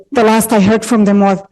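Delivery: breathless, words coming short; out of breath from emotion. Real, not acted. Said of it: "Sorry, I'm out of breath".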